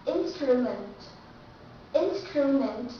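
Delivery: Instrument with a clear TR; strong true T. Shown as a demonstration. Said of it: "so you have to pronounce strong".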